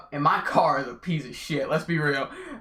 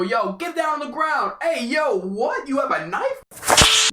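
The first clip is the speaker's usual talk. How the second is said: higher, louder mock police command, last line slow; mock cop; 8 semitones higher, 4 dB louder, slower than usual. Mocking his own police-officer plan with a mock cop shout. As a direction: play a cop badly on purpose. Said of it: "I could never go".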